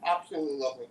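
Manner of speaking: talking with a mouthful; mouth full. Real, not acted. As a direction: speak round a bite of biscuit. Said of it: "I'm speaking with my mouth full".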